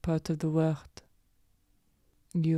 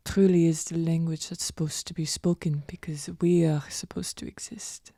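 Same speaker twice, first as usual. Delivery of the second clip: grinding, rock-like whisper; rasping primordial whisper, teeth grinding; primordial tongue. Acted. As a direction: whisper it like rocks falling. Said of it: "are you grinding your teeth?".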